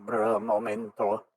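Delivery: voice changer voice. Acted. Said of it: "Spamton voice changer".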